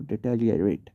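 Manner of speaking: "डिटेरियोरेट" repeated in full, ending ri-o-rate; correct deteriorate pronunciation. Shown as a demonstration. Teacher repeats the right reading for learners, "डिटेरियोरेट" in full. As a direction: model every syllable of "डिटेरियोरेट", falling at the end. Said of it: "पढ़ा जाता है इसको".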